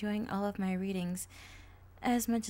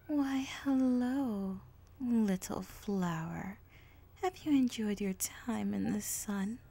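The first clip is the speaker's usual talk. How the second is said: slow, sly whisper of a dark mare; creepy villain voice; 4 dB louder, slower than usual. Acted. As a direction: purr the greeting like a lurking villain. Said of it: "That voice".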